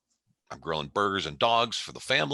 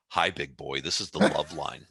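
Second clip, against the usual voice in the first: lightly voiced chat-line recording, a little low; a hint of recorded hotline voice; imitated automated greeting; 3 semitones lower than usual. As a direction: lightly mimic a Love Line phone greeting. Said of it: "it went something like this".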